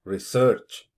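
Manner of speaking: research with SEARCH punched and rising; wrong syllable stressed. Shown as a demonstration. Teacher shows a mistake to avoid, re-SEARCH wrongly stressed. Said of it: "and not".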